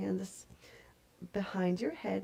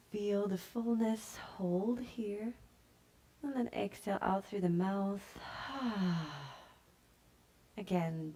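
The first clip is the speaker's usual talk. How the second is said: calm yoga teacher voice, unhurried pauses; guided meditation. Real, not acted. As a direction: guide them gently into stillness and breath. Leads yoga breathing and body scan.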